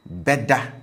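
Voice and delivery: "Beda" with a high tone on the future marker be; tone demo. Shown as a demonstration. Teacher models "Beda" high-toned, will sleep. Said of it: "if I want to say, "Well, sleep," I would say".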